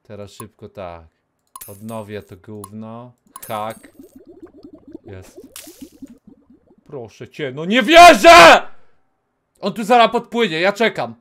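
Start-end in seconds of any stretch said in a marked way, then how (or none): none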